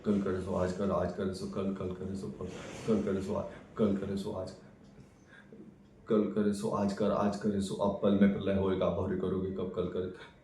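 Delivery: monotone singsong drilling of a verse; rote recitation. Acted. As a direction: rattle it off like a lesson being memorised. Acted rote chanting of a couplet.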